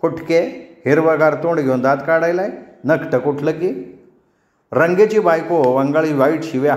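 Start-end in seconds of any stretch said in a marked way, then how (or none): 0.0-4.0 higher, rapid-fire village cursing; wife rounds on the grinning man, scolding; scolding tirade. Acted. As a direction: let loose a string of insults at him. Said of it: "तिने तोंडाचा पट्टा सोडला".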